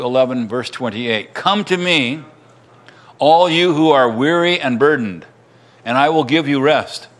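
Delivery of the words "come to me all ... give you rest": deliberate Gospel reading, pausing between phrases; scripture reading. A narrator's reading. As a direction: read the verse out, letting each phrase land. Reads the Gospel verse aloud.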